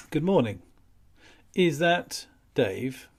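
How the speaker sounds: easy and unhurried; smooth DJ voice. Shown as a demonstration. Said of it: "smooth D J voice".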